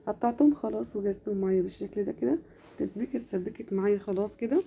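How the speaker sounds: worn-out, tired voice. Real, not acted. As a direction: voice giving out a little. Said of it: "معلش صوتي تعبان شوية". (صوت تعبان ومرهق)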